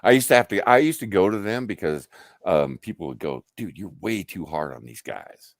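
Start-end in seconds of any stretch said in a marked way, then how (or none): 3.6-5.5 hushed, breathy aside from a coworker; whispered complaint. Retold or imitated. Coworker whispering that he's too hard on the crew. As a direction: pass it on under your breath.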